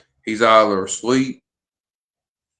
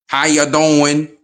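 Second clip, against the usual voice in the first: Madea impression; 3 semitones higher, 3 dB louder, slower than usual. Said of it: "I might sound like Madea".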